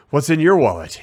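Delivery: mildly exasperated tagline to camera; understated exasperation, turning to the lens; lightly acted weary dad line; a little exasperated. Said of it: "a little, uh, exasperated".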